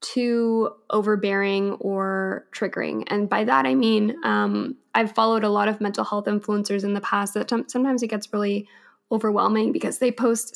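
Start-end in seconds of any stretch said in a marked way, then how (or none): 4.9-10.5 hoarse, voice giving out; raspy, strained losing voice. Real, not acted. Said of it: "sorry, I'm losing my voice".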